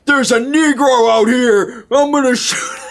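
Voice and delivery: high mock redneck holler, laughing through it; angry redneck. Game master voicing the angry redneck, mock shouting. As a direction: ham up a trigger-happy yokel. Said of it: "the angry redneck".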